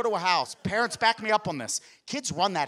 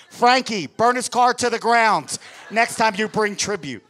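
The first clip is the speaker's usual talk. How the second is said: loud mob boss command, a bit higher; mob boss order; 5 semitones higher, 8 dB louder than usual. Retold or imitated. Four-year-old nephew orders a hit on uncle's car, loud mobster command. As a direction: bark it like a tiny mafia don giving an order. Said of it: "he's like a little gangster".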